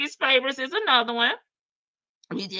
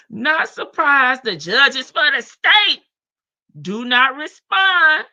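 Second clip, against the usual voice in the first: slow dramatic read; 5 semitones higher, 8 dB louder, slower than usual. Shown as a demonstration. Reading message aloud, slowed.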